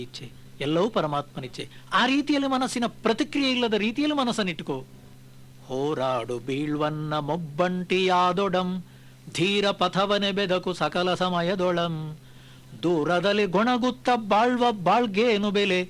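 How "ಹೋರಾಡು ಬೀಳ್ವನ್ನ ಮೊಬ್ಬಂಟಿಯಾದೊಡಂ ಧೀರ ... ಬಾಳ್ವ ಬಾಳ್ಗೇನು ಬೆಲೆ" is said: slow, measured verse chanting; poem recitation. Acted. Speaker reciting a Kagga verse to listeners, slow and measured. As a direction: recite each line slowly and with weight.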